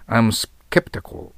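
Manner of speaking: very slow example sentence, each word separated; slow model sentence. Shown as a demonstration. Teacher slowly reading the example sentence to the class. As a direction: spell it out slowly for learners. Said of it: "スケプティカルだな".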